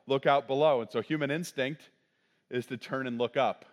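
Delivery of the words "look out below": loud call of warning; yelled warning. Retold or imitated. Warning the old man on the porch, loud yell. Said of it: "I yell".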